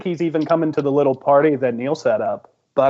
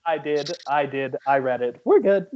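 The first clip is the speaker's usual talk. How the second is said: lower, softer murmured reassurance; Rebecca; 4 semitones lower, 4 dB quieter than usual. Acted. Rebecca answering about the message, low and reassuring. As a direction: reassure briefly in a low, small voice. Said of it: "Rebecca actually goes".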